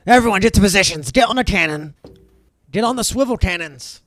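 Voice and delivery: loud, high barked orders; captain yelling orders to the crew, loud. Acted. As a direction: command the deck at full volume. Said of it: "the captain yells out".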